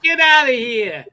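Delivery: high, loud mock outrage; loud disbelief. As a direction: belt it out in disbelief. Echoing the quote louder.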